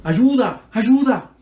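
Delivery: old man calling the nurse at night, mild mock shout; retold cry for help. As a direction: call out like a desperate old patient. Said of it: "el anciano empezó a gritar".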